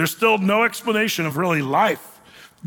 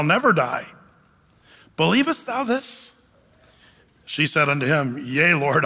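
measured, deliberate Bible reading; solemnly paced scripture read-aloud; 3 semitones lower than usual. Acted. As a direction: read the verse aloud with weighty pauses.

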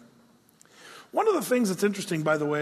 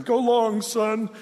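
playful call; 3 semitones higher, 3 dB louder, slower than usual. Retold or imitated. Toy Story quote called out.

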